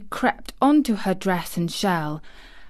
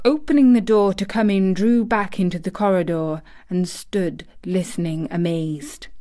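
ordinary delivery, nothing marked

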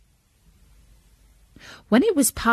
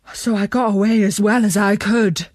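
breathless, higher, panicky report; frightened robber; 3 semitones higher than usual. A narrator's reading. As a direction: tell it like you barely escaped. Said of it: "ran back ... and said".

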